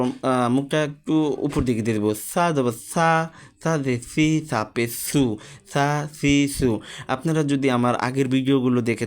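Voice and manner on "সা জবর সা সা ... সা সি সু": sা with the tongue between the teeth, lisped like th. Shown as a demonstration. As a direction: say সা as a th sound, tongue pushed out, face tilted up. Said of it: "জিহ্বাটা একদম বের করে দিব".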